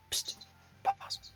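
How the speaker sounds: hushed sneaky whisper. Acted. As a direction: whisper from the shadows. Little voice spying, whispering.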